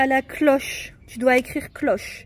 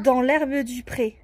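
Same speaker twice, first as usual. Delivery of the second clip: slow recital of the last line; poem reading; slower than usual. Shown as a demonstration. Mother reading the poem's last line to her daughter, slow. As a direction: draw the line out gently. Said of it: "On le relit ensemble?".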